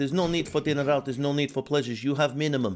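put-on Ukrainian accent. Imitating a man who counts his pasta, Ukrainian accent. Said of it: "obviously Ukraine, so he speaks speak like that".

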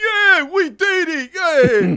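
put-on very high, very loud, very slow, drawn-out British accent. Speaker acting out people cheering at a target range, impression of British people. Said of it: "doing an impression of British people".

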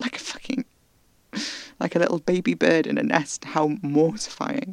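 crying while speaking. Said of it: "And I'm crying again".

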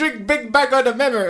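very high-pitched put-on Italian accent. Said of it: "it's kind of Italian".

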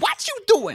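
very high, shrill, loud, terrifying mother voice. Redoing the impression after being asked: Suri impression, terrifying mother. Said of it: "I'll do it again".

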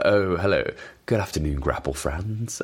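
calm, measured transatlantic elocution. Recalling a wrestling commentator's greeting: Kent Walton transatlantic elocution. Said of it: "that beautiful sort of transatlantic elocution lessons".

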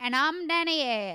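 put-on old man's southern US accent. Saying own name to end a podcast: old southern man accent. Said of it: "It's old southern man".

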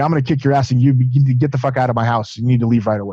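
plain

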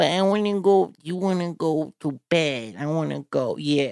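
put-on high baby-talk voice. Mocking couples who use baby talk, the speaker imitates baby talk. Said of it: "you see people say shit like that".

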